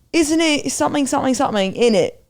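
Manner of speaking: put-on high-pitched, clumsy British accent; imitating dad's British attempt. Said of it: "He really likes doing a British accent".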